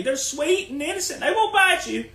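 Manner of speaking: high, sing-song fake innocence; mock naive sweetness. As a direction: sarcastically coo it. Mocking naive viewers.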